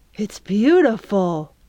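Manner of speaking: hushed, stage-whispered. Pudge, in the boat with the others, looks at the sunset sky: hushed voice. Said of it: "her voice hushed".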